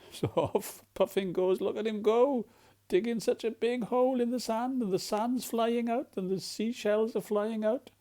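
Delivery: lively excited storytelling. Acted. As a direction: cheer the puffin on as he digs. Excited narration of digging.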